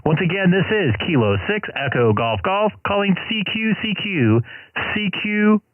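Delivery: calling CQ over the radio; clear, steady operator call-out; ham radio call. Real, not acted. Calling CQ on the air.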